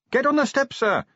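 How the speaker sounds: high, carrying yell. A narrator's reading. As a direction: yell an urgent order over distance. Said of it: "he yelled".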